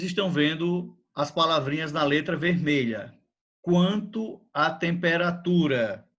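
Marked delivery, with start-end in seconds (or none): 3.6-6.1 slow, clear dictation pace; dictating. Shown as a demonstration. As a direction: read it out slowly for copying. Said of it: "Escrevam isto também".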